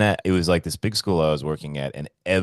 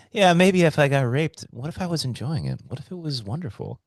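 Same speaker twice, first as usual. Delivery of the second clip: high musing quote; 10 semitones higher than usual. Retold or imitated. Voicing friend's musing, high.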